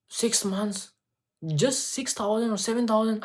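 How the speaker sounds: high, incredulous question; disbelieving. Retold or imitated. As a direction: ask it like you can't believe the price. Disbelief at low fees.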